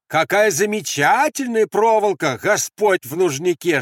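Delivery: high, loud exclamation; shouted mock praise. Andres praising the cursed wire, shouting. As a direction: keep crying out exaggerated admiration. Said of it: "крикнул Андрес".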